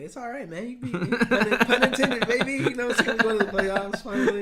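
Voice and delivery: high, loud, laughing hype-man voice; mock celebratory fan shout; hyped fan voice. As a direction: crow it like a giddy fan.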